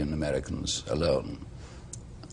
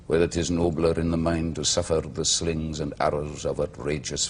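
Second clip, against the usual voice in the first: put-on old Welsh accent. Shown as a demonstration. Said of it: "I spoke with a Welsh accent".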